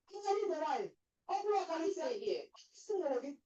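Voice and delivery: loud angry calling out; shouting out. Acted. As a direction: bark them to stay put. Market confrontation, shouting out.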